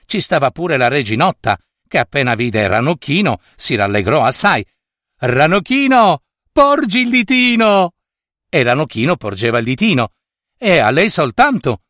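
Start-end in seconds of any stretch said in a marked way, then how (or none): 5.2-7.9 high, eager calling voice; high-pitched call. A narrator's reading. Little queen calls Ranocchino to hold out his finger, high-pitched. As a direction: call out high to a tiny friend.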